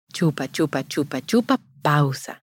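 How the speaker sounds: chupa, chupa at a steady beat, pausa dropped; plain counted rhythm; sucking rhythm demo. Shown as a demonstration. Repeating the feeding rhythm for mothers, steady chant. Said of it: "si tú ves".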